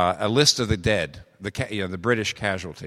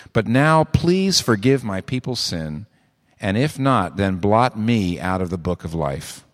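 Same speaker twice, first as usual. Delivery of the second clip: slow, louder earnest plea; pleading Moses; 4 dB louder, slower than usual. Retold or imitated. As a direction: beg God to spare his people.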